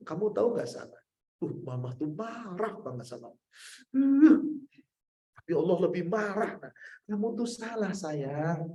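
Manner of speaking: put-on mother tenderly calls her child near. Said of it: "kalau ada orang marah".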